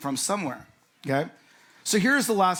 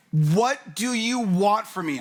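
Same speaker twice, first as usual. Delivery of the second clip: higher, louder and slow, fed up; exasperated outburst; 4 semitones higher, 4 dB louder, slower than usual. Retold or imitated. Husband yelling at his wife mid-argument, exasperated. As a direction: throw the question out in frustration. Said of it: "I'm like".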